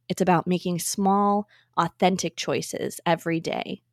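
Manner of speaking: polished, measured host announcement; podcast intro read. Acted. Host introduces an inclusivity expert to listeners, scripted podcast intro read. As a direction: read the episode introduction clearly, phrase by phrase.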